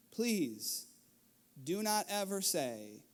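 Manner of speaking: a hint of teary father; emotional plea. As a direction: plead gently, near tears. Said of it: "I was emotional".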